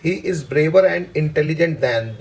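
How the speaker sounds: slow, deliberate reading of the sentence; slow dictation. Shown as a demonstration. Teacher reading a test sentence slowly to students. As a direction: read it slowly so students can follow. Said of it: "because के बाद जोर लगाइए".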